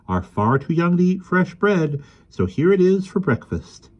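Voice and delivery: a hint of a dumpy, bashful woman; lightly voiced shy lady. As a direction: offer the gift shyly. Missus Hickory speaks.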